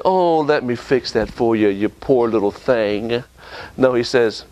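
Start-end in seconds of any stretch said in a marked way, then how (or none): 0.1-3.2 mock pity. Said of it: "God doesn't say".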